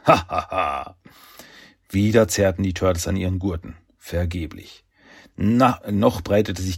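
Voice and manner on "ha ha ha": gloating ha-ha-ha, fading at the end; villain laugh. Acted. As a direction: laugh gleefully at the coming crash. Schurke freut sich über Absturz. (hämisches Schurkenlachen)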